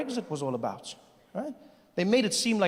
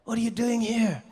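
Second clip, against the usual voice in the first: higher-pitched indignant demand; hostile challenge; 4 semitones higher than usual. Retold or imitated. Local man confronting a visitor, indignant. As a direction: confront an unwelcome intruder, acted out. Hostile look voiced as words.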